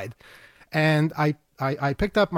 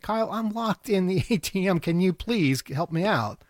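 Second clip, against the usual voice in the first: imploring; 3 semitones higher than usual. Retold or imitated. Retold plea to be let out.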